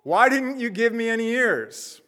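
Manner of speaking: high, indignant little clay man complaining nonstop; ranting Gumby. Acted. Clay figurine berating the person who shaped him, high-pitched and indignant. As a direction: play a tiny figurine mouthing off at its maker, pitched high. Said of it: "the first thing he says is".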